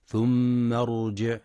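ثم ارجع with the ر of ارجع full and emphatic; heavy r in ارجع. Shown as a demonstration. Teacher shows the thick ر in ارجع slowly. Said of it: "لتفخيم الراء في كلمة فارجع البصر".

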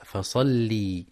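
فصلي with the lam drawn into a long ي, the wrong way; stretched lam. Shown as a demonstration. Teacher imitating the mistake, slow stretched فصلي. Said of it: "بمد اللام بالياء".

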